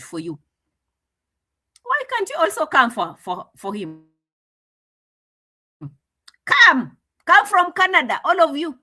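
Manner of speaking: mock him with a high, taunting lilt; sarcastic mock quote. Mocking Maro's sarcastic retort.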